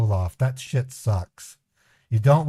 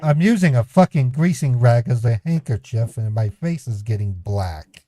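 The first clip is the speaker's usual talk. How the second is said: put-on crying; 3 dB louder than usual. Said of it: "I'm fucking crying".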